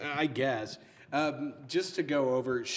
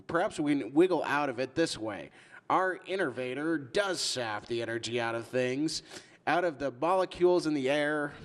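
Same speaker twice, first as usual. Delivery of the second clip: raised, loud mock southern accent; 5 semitones higher, 5 dB louder than usual. Stan answering the letter about the word, southern accent. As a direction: read it out as a hammy southerner. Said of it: "I'm giving a southern accent".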